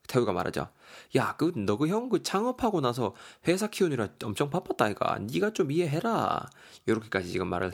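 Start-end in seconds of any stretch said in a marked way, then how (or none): 1.2-6.5 lightly acted friend pleading the brother's case; placating friend. Taehun asks his friend to understand his brother, placating. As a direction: urge understanding, with lifted, lilting phrases.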